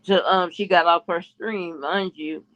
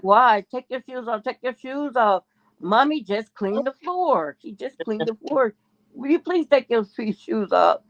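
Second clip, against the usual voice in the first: put-on pleading child's voice, higher; a kid begging him to take his shoes off; 5 semitones higher than usual. Girl begging the boy to take his shoes off, pleading high. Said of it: "pretty much begging him".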